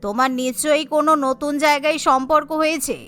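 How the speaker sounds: scolding wife. Acted.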